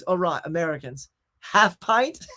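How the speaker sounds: put-on English accent, lifting on the offer; English bartender. Bartender teasing the American crew, English accent. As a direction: tease them lightly in an English accent. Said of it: "And he goes".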